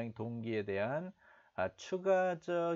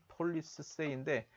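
slow repeat; 2 semitones higher, much slower than usual. Shown as a demonstration. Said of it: "repeating the news line slowly".

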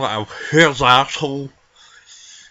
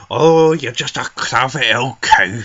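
mocking quote; 4 dB louder than usual.

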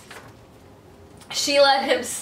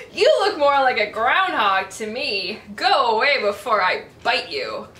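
yelling big dog; 3 semitones lower, 6 dB louder than usual. Acted. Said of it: "such yelling".

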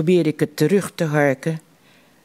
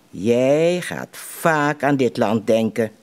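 slow, lower, weighty words; with emphasis; 4 semitones lower, slower than usual. A narrator's reading. Dying father tells his son, lower and slow with emphasis. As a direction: press each word home slowly. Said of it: "Hij zegt dit met nadruk".

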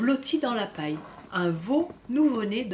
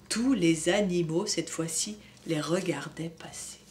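put-on gentle storybook reading for kids; story narration; 2 semitones lower than usual. A narrator's reading. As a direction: read it like a bedtime book. Reading picture book to children. (lecture d'histoire pour enfants)

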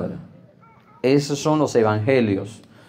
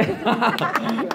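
high burst of laughter; 8 semitones higher, 3 dB quieter than usual. Real, not acted. Risa propia ante la congregación. (carcajada aguda)

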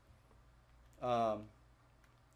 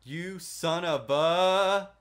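rising loud cry of shock; startled yell; 7 semitones higher, 13 dB louder, much slower than usual. Real, not acted. Streamer startled by something in the game, rising loud. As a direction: jump at the scare.

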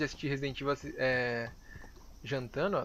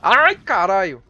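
drawn-out loud groan; 3 semitones higher, 13 dB louder, much slower than usual. Real, not acted. Big hit taken in fight.

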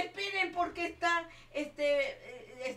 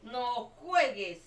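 startled protest; 8 dB louder, slower than usual. Real, not acted. Gets shot in the game.

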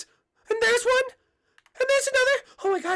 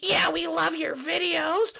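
hammed-up, drawn-out fanboy voice; adoring fan; 3 semitones lower, slower than usual. Fans offer Peach flowers, gushing adoration. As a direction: gush slowly in a put-on fan voice.

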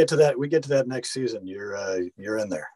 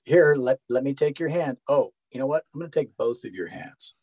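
higher, sugary hand-holding tone; a mildly mocking pandering voice; condescending mock voice; 5 semitones higher than usual. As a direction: talk down like to a child. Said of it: "and says".

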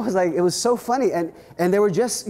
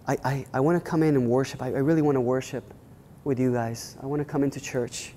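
timid visitor; 3 semitones lower than usual. Retold or imitated. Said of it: "this lady from the community walks in and says".

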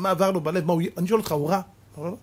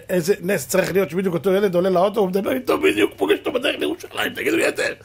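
tag amazed. Real, not acted. Preacher marvels at the coincidence.

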